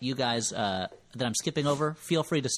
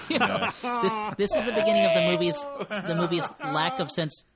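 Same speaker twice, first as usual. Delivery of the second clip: higher, talking through laughter; laughing; 6 semitones higher, 4 dB louder than usual. Real, not acted. Podcaster resuming the plot after a joke, laughing. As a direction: try to carry on while laughing.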